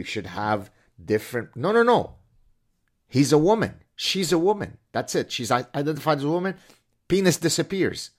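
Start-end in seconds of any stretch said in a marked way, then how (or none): 1.6-8.1 high, loud mock insistence; mock indignant objection. Mimicked activist shutting down the athlete's plea, mock indignant. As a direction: cut in as an outraged objector, hammed-up.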